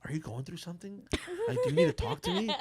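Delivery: hammed-up worried friend checking in; high mocking pity, breaking into laughter; mock concerned friend. Mimicking Nina asking if he's okay, high and laughing.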